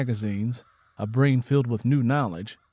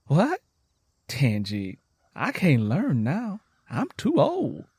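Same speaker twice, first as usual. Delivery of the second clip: surprised doubt; 4 semitones higher, slower than usual. Acted. Lenny doubtful.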